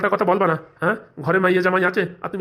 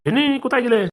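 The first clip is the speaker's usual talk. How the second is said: bellowing for his wife; 5 semitones higher than usual. Acted. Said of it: "এরকম ষাঁড়ের মতন চেঁচাচ্ছ কেন".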